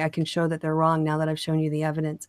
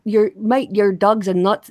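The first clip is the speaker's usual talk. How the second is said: attempted Scottish accent drifting into Irish; amateur Scottish-Irish accent; botched Scottish accent; 2 semitones higher, 4 dB louder, slower than usual. Shown as a demonstration. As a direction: try Scottish and land near Irish. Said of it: "No, that's too Irish".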